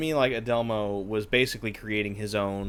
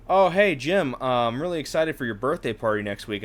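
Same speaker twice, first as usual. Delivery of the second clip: mock chirpy greeting; 3 semitones higher, 3 dB louder than usual. Coworker greets Jim about his birthday party, mock chirpy. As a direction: play a breezy coworker, lightly overdone.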